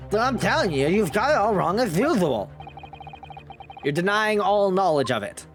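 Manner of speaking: whiny street peddler voice; gossip voice. Acted. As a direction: act the shifty peddler. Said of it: "I love your gossip voice".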